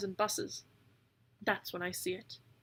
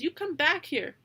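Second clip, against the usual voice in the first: angry shout; 7 semitones higher, 5 dB louder than usual. A narrator's reading. Willow chasing the raven.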